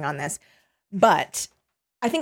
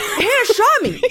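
much higher, goofy dismay; mock realisation; 14 semitones higher, 3 dB louder than usual. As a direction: Charlie realises Hannah shot him, goofy. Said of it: "and he's like".

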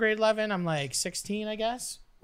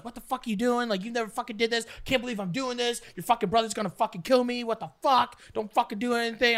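retold angry yelling; 3 semitones higher than usual. Girl telling off the boy who sneezed, mock angry yelling. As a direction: imitate a panicked telling-off. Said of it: "yells at me".

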